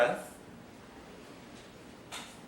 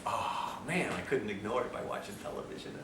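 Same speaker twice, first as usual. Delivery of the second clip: mock whisper; 8 semitones lower, 13 dB quieter than usual. Mocking TV watchers.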